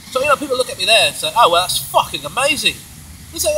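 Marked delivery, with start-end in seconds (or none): 1.4-2.8 high mock amazement; amazed onlooker. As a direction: imitate an impressed bystander, pitched up. Imitating impressed onlookers.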